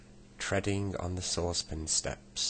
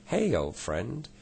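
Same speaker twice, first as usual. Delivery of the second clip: yelled; 6 semitones higher, 4 dB louder, slower than usual. A narrator's reading. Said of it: "he yelled".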